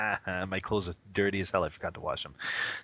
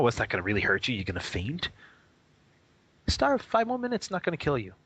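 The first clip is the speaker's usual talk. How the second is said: pushy inner voice; 3 semitones higher than usual. Retold or imitated. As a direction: egg yourself on to keep sitting. Voicing a cultivator's self-talk.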